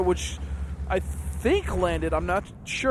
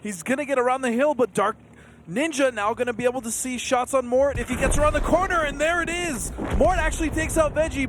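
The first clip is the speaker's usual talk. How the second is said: excited play-by-play; 4 semitones higher than usual. Real, not acted. Caster calls the fight live.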